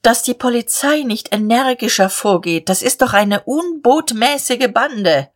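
mildly outraged, voice lifted; indignant. Acted. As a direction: grumble indignantly at an unruly mob. Indignant complaint in dialogue.

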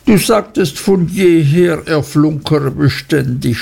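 a touch of a sob; understated sobbing wife. Acted. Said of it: "schluchzte Dora".

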